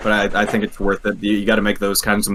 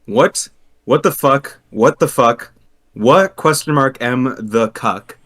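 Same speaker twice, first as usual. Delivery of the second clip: reading chat in caps; 3 semitones higher, slower than usual. Retold or imitated. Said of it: "this is all caps, by the way".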